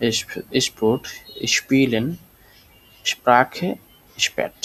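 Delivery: "স্পোর্ট, স্পিলেন, স্প্রাখে, স্প্যাট" each opened with shp; word by word, say "স্পোর্ট, স্পিলেন, স্প্রাখে, স্প্যাট" with sh before p. Shown as a demonstration. Teacher drilling examples for learners, "স্পিলেন, স্প্রাখে" firmly with shp. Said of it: "এটা উচ্চারণ হচ্ছে এসপে".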